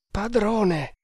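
high-pitched anxious appeal; frightened servant's plea; fearful murmur. A narrator's reading. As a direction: address the master uneasily, pitched high. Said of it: "mormorò Kammamuri".

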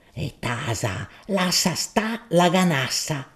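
lightly voiced gruff husband, commanding; husband silencing his wife, mildly imperious. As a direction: cut her off with a touch of authority. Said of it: "Gaudenzio imperioso rispondeva".

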